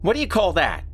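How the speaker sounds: put-on high, gloating boy asks; a boy sure he's won; triumphant kid voice. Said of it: "triumphantly pointing".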